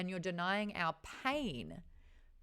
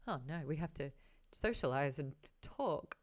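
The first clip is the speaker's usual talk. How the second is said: low, reluctant mock groan; dreading David; 3 semitones lower, 3 dB quieter than usual. David dreads the same balls, lower and reluctant. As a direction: drag out socialize and talk as a chore. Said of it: "he's like".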